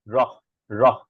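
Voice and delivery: রহ with air released after the flap; flapped র followed by a puff of h; aspirated flap R. Shown as a demonstration. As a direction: breathe out hard on the end of রহ. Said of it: "কেবল বাতাসটা আমরা বের করছি".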